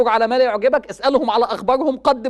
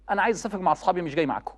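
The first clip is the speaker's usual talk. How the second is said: put-on lower, softer, grudging teenage refusal; sullen son; 4 semitones lower, 4 dB quieter, much faster than usual. Son brushing off family trip, sullen and low. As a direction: mumble it like a bored son who won't come.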